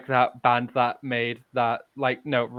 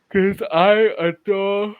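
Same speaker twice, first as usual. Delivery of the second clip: gushing; 8 semitones higher, 7 dB louder, slower than usual. Real, not acted. Gushing about Eva.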